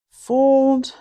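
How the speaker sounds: "fold" said high and loud; stressed fold. Shown as a demonstration. Teaching viewers to fold batter, stressing "fold". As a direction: punch "fold" as an instruction. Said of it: "demonstrating folding".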